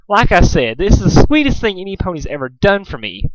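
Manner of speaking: lightly voiced gushing Rarity; a hint of a swooning fine lady; flowery Rarity. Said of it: "the exact same tone of voice".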